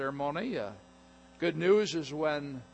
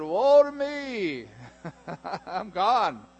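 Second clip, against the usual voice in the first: mock dread; 4 semitones higher, 7 dB louder, much slower than usual. Isaiah quoted in terror.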